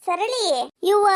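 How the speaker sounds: ಸರಳಿ sung out on a rising pitch; calling out. Acted. Calling the neighbour again, louder.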